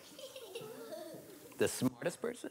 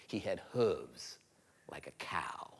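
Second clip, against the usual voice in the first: hushed; 10 semitones lower, 9 dB quieter, slower than usual. A narrator's reading. Spooky detail told to children.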